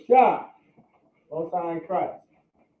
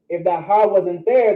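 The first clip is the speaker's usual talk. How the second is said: usual speaking voice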